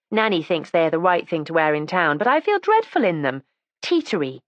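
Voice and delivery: lightly voiced, eager young girl; young girl's voice. Erica complains about shoes.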